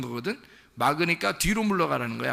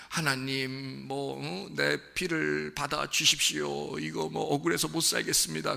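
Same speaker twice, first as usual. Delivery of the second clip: softer, slow, wronged pleading to God; softer, slow mock complaint of a wronged man; mock aggrieved plea; 4 dB quieter than usual. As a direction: whine it like Abel wronged and begging. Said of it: "아벨이 엄청 서운해서 하나님 앞에 뭐 호소했구나".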